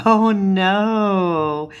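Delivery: drawn-out, mock-dismayed groan of words; amused dismay. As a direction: stretch it out in half-laughing dismay. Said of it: "laughed and kinda went".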